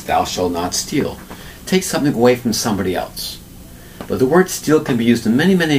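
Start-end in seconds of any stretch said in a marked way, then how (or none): 0.0-1.2 solemn commandment. Shown as a demonstration. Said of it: "one of the Ten Commandments".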